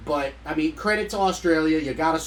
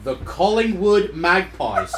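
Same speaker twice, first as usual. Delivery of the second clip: put-on louder Australian accent; 4 semitones higher, 6 dB louder than usual. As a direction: repeat it, Aussie style. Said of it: "try to do it in my Aussie accent".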